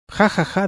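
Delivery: high bursts of laughter; giggling fit at an absurd letter; helpless laughter. A narrator's reading. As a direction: laugh till you can't stop. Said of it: "se echó a reír hasta que ya no pudo parar".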